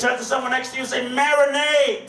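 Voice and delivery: shouted instruction to the crowd; rallying call. Real, not acted. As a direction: fire up the audience. Calling crowd to repeat word.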